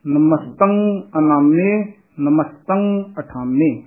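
slow "ਅਨਾਮੇ", "ਅਠਾਮੇ" with lengthened m; nasal sign sounded. Shown as a demonstration. Teacher shows the tippi must be heard, slow nasal pronunciation. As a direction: let the nasal ring in "ਨਮਸਤੰ". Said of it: "ਟਿੱਪੀ ਦਾ ਉਚਾਰਨ ਆਉਣਾ ਚਾਹੀਦਾ".

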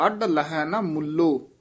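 ਅੱਡ retroflex, then stop after ਮੁੱਲੋ; pause after ਮੁੱਲੋ. Shown as a demonstration. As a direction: break the line after ਮੁੱਲੋ. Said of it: "ਇੱਥੇ ਵਿਸਰਾਮ ਹੈ".

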